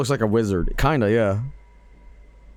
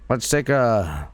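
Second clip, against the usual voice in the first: lightly voiced old prospector, slow; drawn-out hint of a grizzled miner; slower than usual. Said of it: "We got an old prospector guy".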